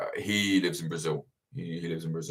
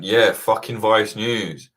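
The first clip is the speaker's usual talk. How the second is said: slow proud retort; 4 dB louder, much slower than usual. Retold or imitated. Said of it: "And I just went".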